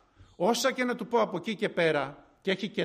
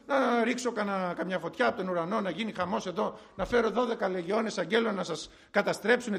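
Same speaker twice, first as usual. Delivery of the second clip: hammed-up touchy protest; mock offended. Jesus imagined arguing back at the Pharisees, mock indignant. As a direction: pretend to take offence at the accusation. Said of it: "Δεν πήγε παρεξηγημένος".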